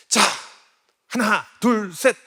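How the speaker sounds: energetic countdown. Retold or imitated. Dad launching his daughter's bike ride, loud count. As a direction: call the count like a starting signal. Father counts, starts running.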